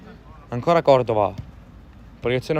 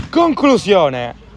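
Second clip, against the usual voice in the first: drawn-out loud shot cry; excited shot call; 3 semitones higher, 5 dB louder, much slower than usual. Real, not acted. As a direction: stretch it out as the ball flies. (grido di tiro allungato)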